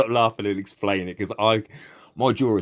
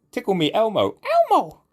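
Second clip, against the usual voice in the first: high-pitched, laughing delight; cracking up; 12 semitones higher than usual. Real, not acted. Gamer cracking up at his own trolling, laughing. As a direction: burst out laughing as you say it.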